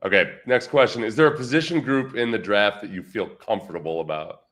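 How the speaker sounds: thin, tinny mic sound. Real, not acted. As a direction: sounds like a cheap tinny microphone. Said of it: "my voice sounds tinny".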